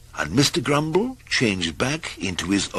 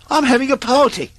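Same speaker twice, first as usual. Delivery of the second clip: much higher, louder cheerful call; cried out; 7 dB louder, faster than usual. Acted. Little Miss Fun calls Mister Grumble to her party, high and cheerful. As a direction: sing out a bright invitation. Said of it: "she cried".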